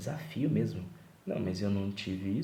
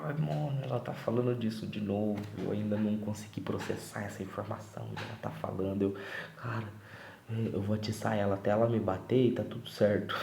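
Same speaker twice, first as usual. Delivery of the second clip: inner panic; 2 semitones higher than usual. Retold or imitated. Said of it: "eu fico".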